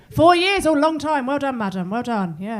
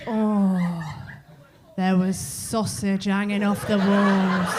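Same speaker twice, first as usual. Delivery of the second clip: mock boasting; 3 semitones lower, much slower than usual. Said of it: "We don't feel the need to go".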